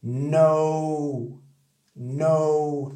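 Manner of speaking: quick no with the gliding O; said quickly. Shown as a demonstration. Teacher showing no at normal speed. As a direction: say no fast, with the glide. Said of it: "Dis rapidement, ça fait ça".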